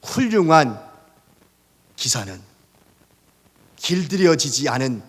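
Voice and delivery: a hint of Socrates' serene wisdom; wise calm reply. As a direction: say it like a calm old philosopher. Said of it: "소크라테스가 이렇게 이야기합니다".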